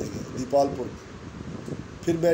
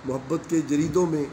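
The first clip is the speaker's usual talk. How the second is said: poem recitation. Acted. Recites a second nazm.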